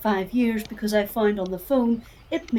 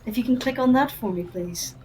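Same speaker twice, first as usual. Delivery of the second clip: soft, polite help-desk voice; customer service voice; 3 dB quieter than usual. Acted. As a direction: talk them through it calmly. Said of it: "I like your customer service voice".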